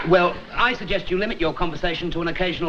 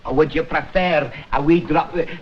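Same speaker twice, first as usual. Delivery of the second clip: put-on Scottish accent; 3 semitones lower than usual. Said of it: "Our clan comes from Edinburgh".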